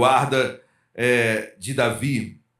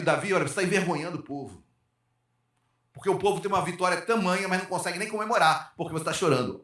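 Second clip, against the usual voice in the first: dismissive rebuke; 5 dB quieter, faster than usual. Retold or imitated. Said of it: "e fala pra Davi".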